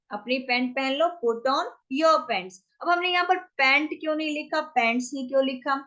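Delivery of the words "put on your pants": drawn-out teaching delivery; slow demo phrase; slow model phrase. Shown as a demonstration. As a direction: stretch it so learners can follow. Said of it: "teacher repeats model phrase".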